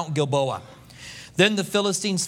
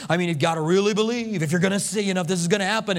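lightly voiced spooky medium, quick and coaxing; a hint of a sly medium coaxing Saul; woman's voice, mock medium; 2 semitones lower, much faster than usual. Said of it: "perhaps she asked him".

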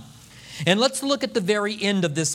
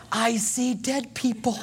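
laughing quote. Retold or imitated. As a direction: deliver it laughing at the ghost-movie line. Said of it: "she says to Saul".

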